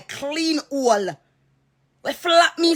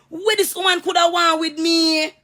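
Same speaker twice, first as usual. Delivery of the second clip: exasperated shout; 6 semitones higher than usual. Real, not acted. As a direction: yell it out in disbelief. Ranting, shout heard.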